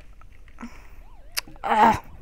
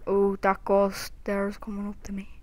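scared whisper. Real, not acted. Ghost approaching in game.

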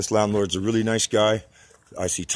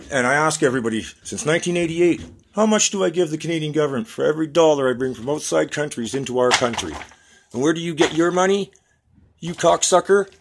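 rising furious yelling at the government; angry rant; 7 semitones higher, 4 dB louder than usual. Real, not acted. Ranting at the Canadian government, furious and shouting. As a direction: build from angry questions to a shouted insult.

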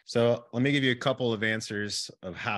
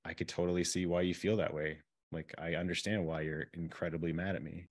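compassionate; 3 dB quieter than usual. Shown as a demonstration. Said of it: "have compassion and have kingly vision".

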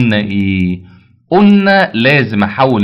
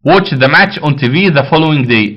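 slow dictation; much slower than usual. Shown as a demonstration. Teacher dictates the answer slowly.

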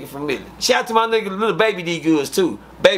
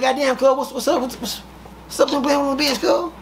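mock outraged Nate; 7 semitones higher than usual. Nate's outraged reaction.

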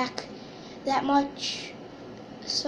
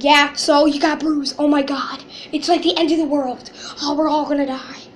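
mock alarm; 5 dB louder than usual. Mocks the kid's bruise as catastrophe.

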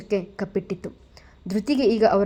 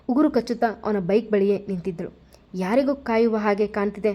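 plain reading voice

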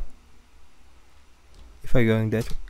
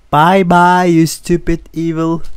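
loud, high victory shout; taunting goodbye; 4 semitones higher, 7 dB louder than usual. Real, not acted. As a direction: yell a mocking farewell at the monster. Gleeful taunt on escaping.

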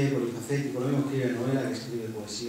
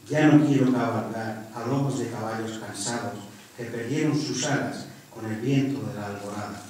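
declaimed verse with a forceful opening; poem recitation; 4 dB louder than usual. Acted. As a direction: recite the verses in measured phrases.

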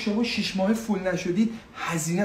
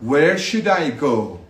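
slow, clear where should I go; slow model phrase; 2 semitones lower, 4 dB louder, much slower than usual. Shown as a demonstration. Teacher slowly models asking directions for students. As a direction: drill it word by word slowly. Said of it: "این رو باید بگی دیگه".

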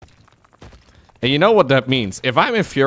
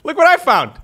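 higher, thrilled announcement; excited find; 13 semitones higher, 5 dB louder than usual. Real, not acted. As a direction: show off the find. Excited discovery.

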